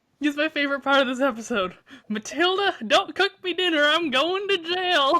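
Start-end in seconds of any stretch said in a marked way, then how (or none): 2.1-5.2 put-on funny, high, slow little old man's voice. Quoting a favorite line from the episode: Mister Webster old man voice. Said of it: "this old man voice".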